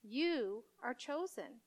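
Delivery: soft, slow, solemn pronouncement; lightly voiced God, hushed and measured. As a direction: quietly intone a divine calling. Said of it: "This voice telling him".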